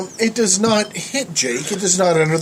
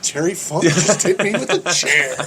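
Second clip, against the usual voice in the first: retold amused disbelief. Teller realises who hit him, laughing mild disbelief. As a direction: let it sink in, half laughing. Same sentence retold as second reaction.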